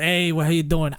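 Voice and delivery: light New York greeting; a casual New York how you doing; New York Joey accent. Shown as a demonstration. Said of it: "as Joey".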